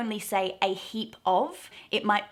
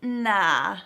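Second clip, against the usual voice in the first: offhand polite refusal, a touch louder; casual yeah nah; 6 semitones higher, 5 dB louder than usual. Retold or imitated. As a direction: brush it off with a breezy yeah nah. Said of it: "I might go".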